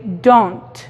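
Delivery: don't con vocal británica; "don't" con o larga redondeada; other pronunciation of don't. Shown as a demonstration. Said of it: "otra gente te va a decir simplemente". (don't al estilo británico)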